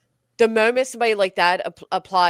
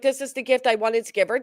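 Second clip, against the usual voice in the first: mock sincere; 6 semitones higher than usual. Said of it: "she's putting on an act".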